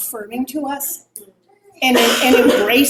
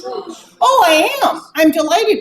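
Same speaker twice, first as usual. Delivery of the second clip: sarcastic; 7 semitones higher, 5 dB louder, slower than usual. Retold or imitated. Sarcastic reply to hurtful comment.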